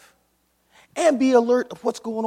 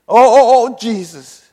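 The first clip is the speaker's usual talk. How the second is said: mock panicked prayer; 4 semitones higher, 13 dB louder than usual. Preacher mocks the crisis believer crying out to Jesus. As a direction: send up the desperate believer.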